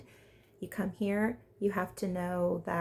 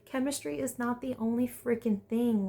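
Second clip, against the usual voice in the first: pleading advice; 4 semitones higher than usual. Retold or imitated. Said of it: "I'm like".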